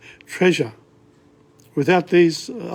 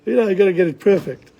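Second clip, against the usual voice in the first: critical musicians; 6 semitones higher, 3 dB louder, faster than usual. Retold or imitated. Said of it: "they all criticize me".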